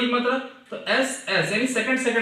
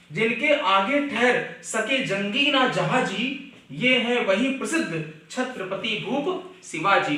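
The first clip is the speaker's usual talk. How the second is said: slow, measured verse recitation; poem recital; slower than usual. Shown as a demonstration. Teacher reciting the Shivaji verse to students, slow measured recital. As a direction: recite each phrase slowly and deliberately.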